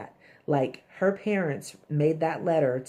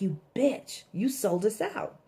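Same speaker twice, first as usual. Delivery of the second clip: retold angry outburst; 6 semitones higher than usual. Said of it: "he's going off".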